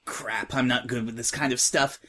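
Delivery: a tomboy filly, brash and impatient; slightly rough, impatient young voice; lightly voiced tough filly. Tough filly to the crying new girl, impatient.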